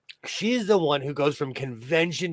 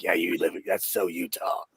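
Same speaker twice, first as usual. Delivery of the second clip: lower, teasing jab; 7 semitones lower, 4 dB quieter than usual. Retold or imitated. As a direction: playfully tease their home state. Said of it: "I'm like".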